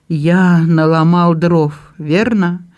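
slow, shaky confession; trembling voice. Acted. Andrew apologises to Belinda, voice trembling. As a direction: admit it haltingly, voice unsteady. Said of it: "с такой дрожью в голосе".

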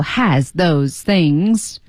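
"has those things" slow, every consonant sounded; deliberate full pronunciation. Shown as a demonstration. Teacher mimicking a learner insisting, "has those things" fully pronounced. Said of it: "我故意要读".

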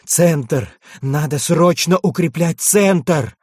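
urgent battlefield shout. Acted. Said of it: "выкрикнул Минош".

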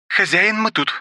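high maid's voice, called out; the maid calling to her master over the radio; rough exclamation. Acted. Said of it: "воскликнула Руби шершавым голосом".

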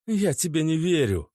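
high, firm denial; girlfriend refusing. A narrator's reading. Natasha refuses to believe Oleg. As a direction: push back.

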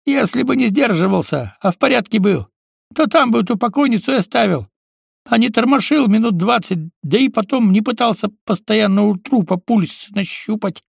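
a hint of a sceptical friend; lightly voiced Baklan. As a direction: needle Green with a knowing tone. Баклан's voice in the story.

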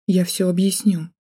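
plain reading voice

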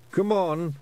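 high little Scots pixie; eager Feegle call. A narrator's reading. Feegle urges.

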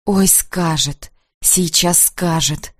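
slow, hushed inner despair; despairing thought. A narrator's reading. Heroine dreading the confession, slow despairing murmur. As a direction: dread it, drawn out and low. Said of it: "думаю я с отчаянием".

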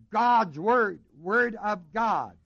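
"word of God" said slowly, landing on God; slow down and lean on "God" in "word of God"; emphasis on God. Shown as a demonstration. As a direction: contrast "God's word" with a slow, weighted "word of God". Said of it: "put in the genitive to put the emphasis upon God".

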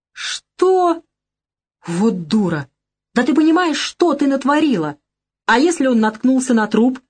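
high, loud furious yelling; shouting. A narrator's reading. Lyosha shouts at Lolita for her blunder, furious. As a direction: let the rage explode at her. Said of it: "начал кричать на неё".

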